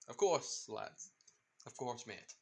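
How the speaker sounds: put-on amateur pirate accent, easygoing and reassuring; Jack Sparrow. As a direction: have a clumsy go at a pirate captain's accent. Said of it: "I'm trying to do the accent".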